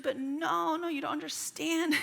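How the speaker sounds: put-on high, protesting little-girl voice; imitated upset child. Daughter objecting to dad's advice, imitated upset protest. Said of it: "She was very upset".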